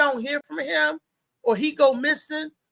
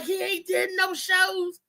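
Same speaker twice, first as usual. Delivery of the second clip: panicking; 6 semitones higher, slower than usual. Retold or imitated. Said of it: "I'm panicking".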